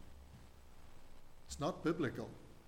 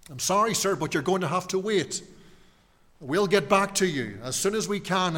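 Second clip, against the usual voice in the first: higher, louder, polite call-centre voice; phone queue operator; 5 semitones higher, 4 dB louder than usual. Retold or imitated. Preacher voicing a phone queue operator, mock-polite and higher. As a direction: sound like a phone queue message. Hold message while waiting in queue.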